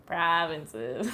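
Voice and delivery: Canadian vowels on "Provinces."; Canadian accent. Real, not acted. Streamer echoing her own word to chat, Canadian accent. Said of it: "say that in a very Canadian way".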